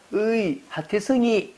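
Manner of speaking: lightly put-on church deacon voice; imitated deacon. Deacon greeting a seven-year-old at church, lightly mimicked. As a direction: tease a child like a fond deacon. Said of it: "안수 집사님 한 분이".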